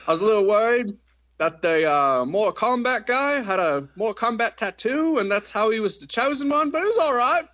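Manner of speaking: high-pitched mock-worried voice, breaking into a laugh at the end; YouTube reviewer impression. YouTuber fretting about a tattoo, high, laughing voice. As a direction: pitch it way up, fussy, then laugh it off. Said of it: "He's just like".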